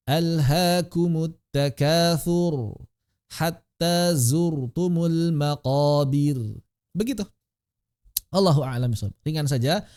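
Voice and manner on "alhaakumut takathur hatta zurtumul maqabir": slow measured tilawah; slow recitation. Shown as a demonstration. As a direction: chant each word slowly. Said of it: "recitation demo". (tilawah pelan)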